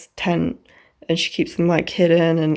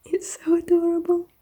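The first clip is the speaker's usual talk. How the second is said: gushing; 9 semitones higher than usual. Real, not acted. Gushing over the book.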